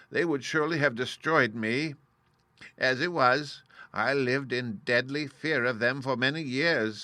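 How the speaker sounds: lightly voiced humbug wizard, talking it over. Oz explains himself to Dorothy.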